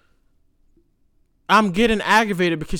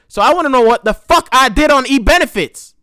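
loud, raised-pitch frustrated insistence; retold phone argument, pushing hard on each word; angry demand; 6 semitones higher, 7 dB louder than usual. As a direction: demand answers, fed up and loud. Acted angry demand on phone call.

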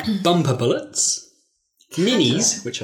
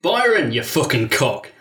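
rough Northern English accent, slow and heavy; slower than usual. Shown as a demonstration. Greeting an old friend with a Northern insult, in a Northern accent. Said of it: "I've started another accent".

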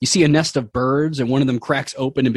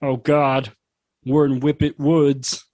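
rising, higher mock panic; panicking Sullivan; 10 semitones higher than usual. Sullivan realizing they are lost, mock panic. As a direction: spiral into hammed-up panic. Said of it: "Sullivan's eyes go wide".

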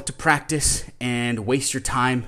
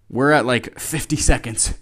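holding a plank; 6 dB louder than usual. Real, not acted. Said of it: "this is gonna be a long".

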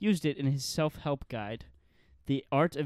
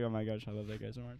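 a hint of grandma; 4 semitones lower, 10 dB quieter, faster than usual. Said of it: "She'll be like".

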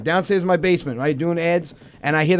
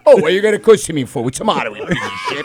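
mildly quarrelsome accented dad; mock-scold as the dad; imitated dad. Shown as a demonstration. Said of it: "I'll mimic a fucking conversation between them two".

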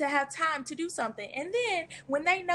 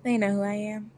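put-on voice; 3 semitones lower than usual. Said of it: "Why do you sound like that?".

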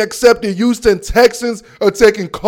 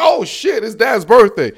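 sudden realization. Retold or imitated. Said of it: "I'm like".

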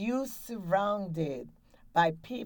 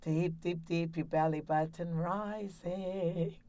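breathing exercise; 5 dB quieter than usual. Shown as a demonstration. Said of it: "One more time".

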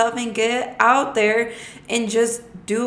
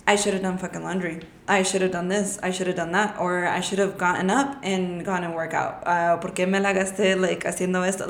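mock regretful mutter; 3 semitones lower, 5 dB quieter than usual. Mock regretful bedtime self-talk.

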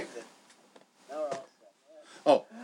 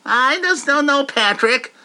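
SpongeBob; 4 semitones higher than usual. Retold or imitated. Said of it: "Patrick of SpongeBob".

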